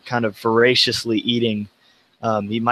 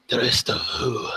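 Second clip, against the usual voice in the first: whispered question; 3 dB quieter than usual. Acted. Confused survivor asks quietly.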